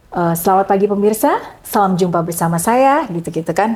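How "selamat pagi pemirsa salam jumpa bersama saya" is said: steady, rounded host greeting; full round voice. Shown as a demonstration. MC coach showing the right round host voice, steady and full. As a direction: open the show in a full, round tone. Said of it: "harus bulat gitu".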